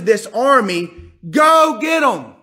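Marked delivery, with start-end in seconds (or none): 1.3-2.3 high, slow rallying call; cheering command. Acted. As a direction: send them off with a shout. Joab ordering the army.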